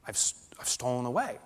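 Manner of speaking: soft, slowed-down dread; hushed, horrified realisation; quiet inner panic. Retold or imitated. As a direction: murmur it like a gut punch. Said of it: "I felt this knife go into me saying".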